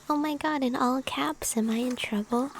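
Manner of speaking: gentle breathy whisper to viewers; ASMR whisper. Acted. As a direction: whisper it like a bedtime ritual. Whispering reactions to chat.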